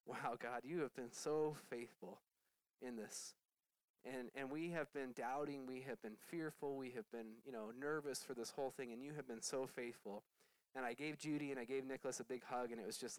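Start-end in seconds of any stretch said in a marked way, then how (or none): 0.1-10.2 lightly hushed prayer of thanks; awed prayer. Retold or imitated. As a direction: whisper thanks in wonder. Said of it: "this sense of awe".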